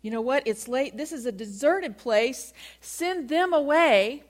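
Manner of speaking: imitating disciples who want the crowd gone; insistent disciples. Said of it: "that's not their approach".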